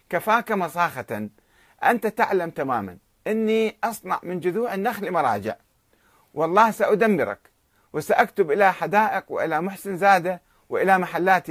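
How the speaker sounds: understated furious rant; retold angry threat. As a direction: threaten him with rising anger. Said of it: "فغضب النخجواني وقال".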